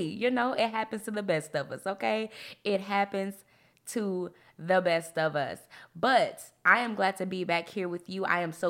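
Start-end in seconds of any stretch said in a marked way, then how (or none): 2.6-5.6 deliberate, spaced-out reassurance. Real, not acted. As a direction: break after "happens", then stretch out "to the best of us". Repeats line slowly for emphasis.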